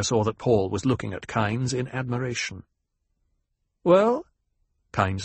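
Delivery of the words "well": sharp higher demand; a pointed, impatient Well. A narrator's reading. Kynes demands answer.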